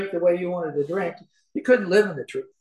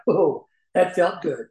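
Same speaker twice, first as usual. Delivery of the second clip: savoring; slower than usual. Retold or imitated. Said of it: "I'd be sitting there going".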